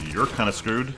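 "You're kinda screwed" with a lift on "You're"; teasing. Real, not acted. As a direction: tease the enemy lightly. Taunts trapped enemy.

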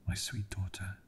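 breathy near-whisper, fading away; barely there, the last strength going; dying whisper. Acted. Dying father whispers his farewell to his daughter, hushed.

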